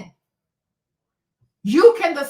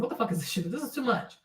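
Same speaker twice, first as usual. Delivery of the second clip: much lower and softer, mock-overwhelmed grumble; overwhelmed new mom; 4 semitones lower, 9 dB quieter, much faster than usual. New mother with a baby latched on, lower and overwhelmed.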